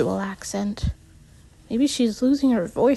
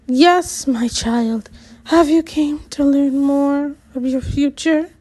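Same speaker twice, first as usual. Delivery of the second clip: mystic fortune teller; 3 semitones higher than usual. Acted.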